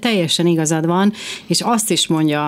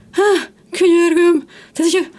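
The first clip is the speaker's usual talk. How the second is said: exasperated plea; 13 semitones higher, 4 dB louder than usual. Real, not acted. Woman reacting to mothers saying they do nothing, exasperated. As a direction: burst out in pleading disbelief, stretching it out.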